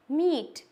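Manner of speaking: "meet" with a long ee; long E sound. Shown as a demonstration. Teacher repeating the correct reading after the wrong one, long E. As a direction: stretch the ee in "meet". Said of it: "long ई sound".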